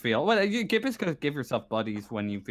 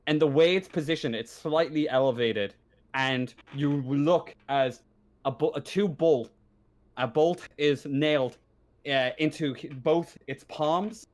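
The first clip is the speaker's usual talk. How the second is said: grim scene-setting; 3 semitones higher than usual. Acted. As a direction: lay out the gruesome find piece by piece.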